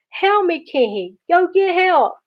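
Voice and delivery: high, wailed mock plea of a stuck boy; panicked pleading. A narrator's reading. Stuck brother begs Kenny to fetch help, panicked pleading. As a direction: call for help in a high, desperate voice.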